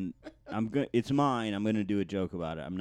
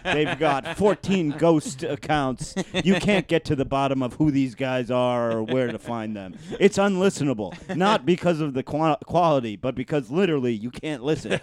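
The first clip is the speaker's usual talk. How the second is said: lightly acted analyst getting louder and more worked up; mock-urgent, emphatic briefing; junior CIA investigator; 2 semitones higher, 7 dB louder than usual. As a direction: build an alarmed case to the boss. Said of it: "like a junior, like, computer investigator at Langley".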